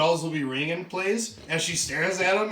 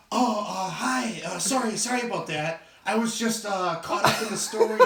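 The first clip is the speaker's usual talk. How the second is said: slightly higher, halting apology; mock flustered; 4 semitones higher than usual. Bookseller apologising to a handsome stranger, mock flustered. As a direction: stammer a lightly acted apology.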